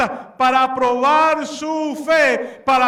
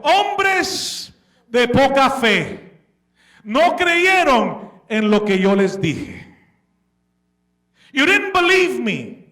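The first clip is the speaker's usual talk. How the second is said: rebuke; slower than usual. Acted. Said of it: "una vez más los reprendió".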